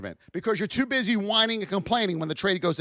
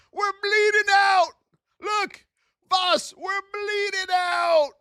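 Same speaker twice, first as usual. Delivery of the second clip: mock panic; 9 semitones higher, slower than usual. Panicked trader calling boss.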